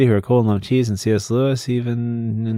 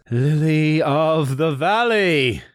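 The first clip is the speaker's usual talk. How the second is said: classical stage acting; 5 semitones higher, much slower than usual. Dramatic donor name reading.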